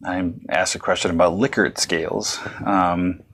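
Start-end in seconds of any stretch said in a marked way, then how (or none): 1.3-1.8 Likert said LICK-ert, short i; supposed mispronunciation. Retold or imitated. Lecturer retelling a student question, LICK-ert pronunciation of Likert. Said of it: "I had mispronounced the word".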